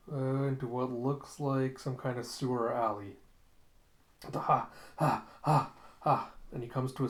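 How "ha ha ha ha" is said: short, separate huffing breaths; running pants. Acted. Zapan chased through the sewer alley, acted panting. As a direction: huff hard, out of breath from running.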